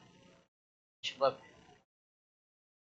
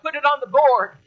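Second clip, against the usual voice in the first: higher, louder emphatic charge; preaching climax; 8 semitones higher, 5 dB louder than usual. Real, not acted. Preacher urging the church to set goals, loud and emphatic. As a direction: drive it home to the congregation.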